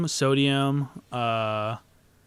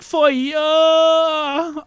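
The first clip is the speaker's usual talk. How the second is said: mock Uncle Roger accent; 12 semitones higher, 4 dB louder, much slower than usual. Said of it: "That's an accent he just puts on".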